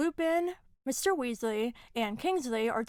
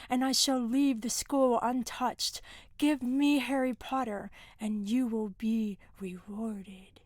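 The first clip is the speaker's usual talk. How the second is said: lightly voiced creepy villain ultimatum; a hint of a menacing dark lord, slowing at the end; Voldemort. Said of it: "does his creepy, magnified voice thing".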